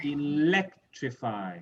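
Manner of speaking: Electrify slowly, weight on "lec"; eLECtrify, slow and clearly stressed. Shown as a demonstration. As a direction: stretch out Electrify, leaning on the second syllable. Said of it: "So the same for all of these".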